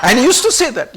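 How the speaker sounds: chuckling through the words; laughing. Real, not acted. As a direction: let a laugh break through the line. Laughing while recalling Baba's words.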